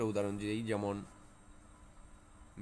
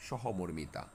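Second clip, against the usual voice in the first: slow example; 3 semitones lower, 4 dB quieter, much slower than usual. Shown as a demonstration. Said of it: "teacher spelling out example".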